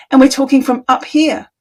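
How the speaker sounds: talking from up high; pitch too high. Shown as a demonstration. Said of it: "Maybe the pitch is too high".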